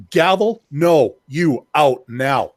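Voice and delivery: slow, punched-out order to leave; mock judge laying down the law; firm dismissal. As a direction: cut them off word by word. Acting out shutting a governor down.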